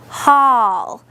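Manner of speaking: "Hall" blended into one long syllable; sounded-out syllable blended. Shown as a demonstration. Teacher blending the first syllable for pupils, drawn out. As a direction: join the sounds into a held, falling "Hall". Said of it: "let's sound out the first syllable".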